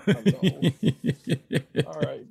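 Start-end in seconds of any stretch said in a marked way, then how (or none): 0.0-0.7 high, sing-song puppy greeting; talking to dogs. Real, not acted. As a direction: coo hello to the dogs.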